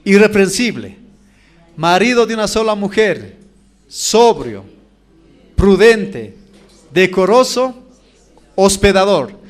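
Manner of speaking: emphatic list with a pause before "sobrio" and each other item; recited for memorizing. Shown as a demonstration. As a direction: drill the list item by item, hitting "decoroso" and "prudente" loudly. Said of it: "Voy a repetir uno más para que vayan memorizando".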